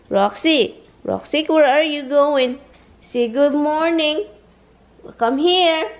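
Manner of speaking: high, loud sing-song coaxing; coaxing a pet. Real, not acted. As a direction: coax the dog in a high voice. Coaxing dog to speak.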